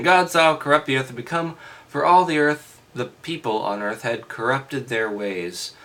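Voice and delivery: loud, formal reading voice; scripture reading. Acted. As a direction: read it out like a lesson.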